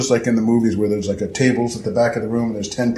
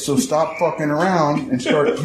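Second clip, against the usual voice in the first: come in hot; 6 semitones higher than usual. Shown as a demonstration. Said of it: "teach my man the little art of".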